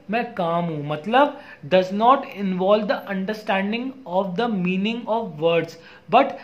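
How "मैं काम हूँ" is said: mildly calm, lowered voice; calm demo. Shown as a demonstration. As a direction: let the voice settle to show calm. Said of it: "मैं धीमे हूँ". (शांत होने का नमूना, हल्की धीमी आवाज़)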